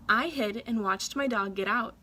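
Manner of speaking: plain reading voice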